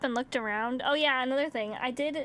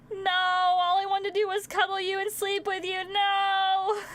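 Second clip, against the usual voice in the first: mock wailing; 7 semitones higher, 4 dB louder than usual. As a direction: wail it like a heartbroken cat owner. Retold wail to the shunning cat.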